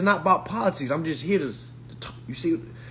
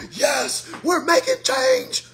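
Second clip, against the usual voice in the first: mock white protester; 11 semitones higher than usual. Mocking white folks at protest.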